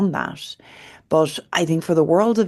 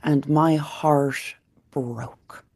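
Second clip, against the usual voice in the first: heartfelt; much slower than usual. Real, not acted. Moved retelling daughter's plea.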